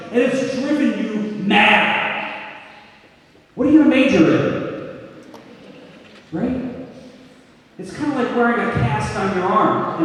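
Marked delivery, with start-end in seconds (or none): 3.5-4.6 nosy relative. Retold or imitated. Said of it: "has asked you one question".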